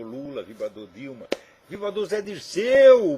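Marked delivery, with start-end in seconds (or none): 1.7-3.2 mock outrage.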